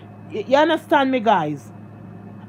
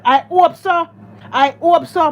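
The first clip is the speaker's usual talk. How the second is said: 1 emphatic hope; 5 semitones higher, 4 dB louder than usual. Real, not acted. Emphatic repeated wish.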